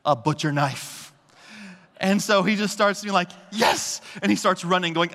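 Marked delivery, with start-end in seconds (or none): 3.5-4.0 gleeful. Retold or imitated. Toddler grabbing butcher knife.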